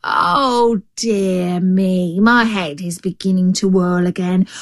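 lightly voiced helpless dismay; feigned giddy confusion; fret, then rise into a plea; befuddled jackal.

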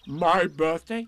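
loud, high, drawn-out donkey disbelief; Eeyore. A narrator's reading. Eeyore asks if Piglet means him, slow and astonished. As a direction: stretch it out in astonishment.

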